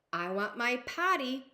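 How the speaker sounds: loud, sassy demand. Acted. Princess demanding her potty, loud and sassy. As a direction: push the want out. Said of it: "She is sassy little girl".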